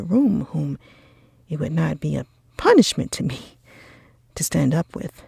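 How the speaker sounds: put-on haughty young gentleman, scornful refusal; proud Darcy, disdainful. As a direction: brush off the offer with contempt, quickening.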